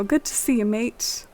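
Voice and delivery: light mock British accent on mate. Player greets Kix in a mock British accent. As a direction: say "Good to see you, mate." with a playful British lilt. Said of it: "trying out my accent to impress Kix".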